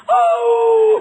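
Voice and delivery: high, loud yelping howl; mock howl. Preacher retelling the funeral dog, loud high mock howl.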